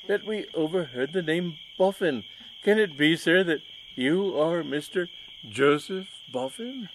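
lightly voiced posh gentleman; well-bred gentleman. Rumbelow voiced by reader.

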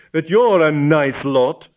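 slow, icy sarcasm; cold voice. Acted. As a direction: sneer it out slowly. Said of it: "the cold voice of Hypatia Wace".

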